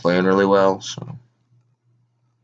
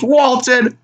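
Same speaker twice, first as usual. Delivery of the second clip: high, very slow bark of a question; mock Auerbach demand; 10 semitones higher, much slower than usual. Team owner asking injured player, high slow mock demand. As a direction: challenge him slowly.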